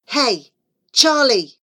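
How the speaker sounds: put-on bossy scheming boy whisper; loud whisper. A narrator's reading. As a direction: call across the class in a loud whisper. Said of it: "Dylan whispered again loudly".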